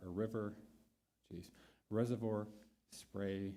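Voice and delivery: stumbling over the names; tripping over words, restarting; tongue tied. Real, not acted. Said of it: "I'm getting tongue-tied".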